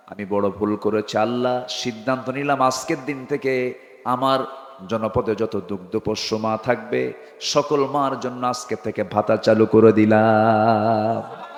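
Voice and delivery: low, chanted repentance; retold tearful prayer. Omar repents and promises Allah allowances, retold tearful prayer. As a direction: plead in a low chant, stretching the last word. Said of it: "কান্নাকাটি শুরু করে দিলেন".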